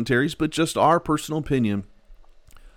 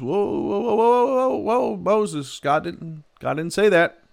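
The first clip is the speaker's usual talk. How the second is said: high, startled protest; alarmed whoa; 9 semitones higher than usual. Real, not acted. Preacher stops Moses in alarm, high startled protest. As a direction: stop him in shock. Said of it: "preacher reacts to Moses' words".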